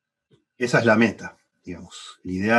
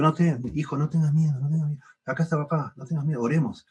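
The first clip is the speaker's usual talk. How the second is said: padre tranquilizando; 5 semitones higher than usual. Retold or imitated. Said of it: "lo vuelvo a abrazar y le digo".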